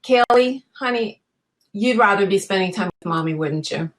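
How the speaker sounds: gentle, soothing mother speaking to her daughter; tender coaxing to child. Shown as a demonstration. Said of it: "that's where you go".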